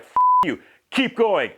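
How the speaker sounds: hammed-up furious coach; mock angry outburst. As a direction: coach blowing up in mock rage. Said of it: "but Herb is like".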